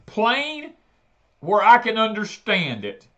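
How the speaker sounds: angry demand. Retold or imitated. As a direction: insist it like you're fed up. Yelling at phone rep.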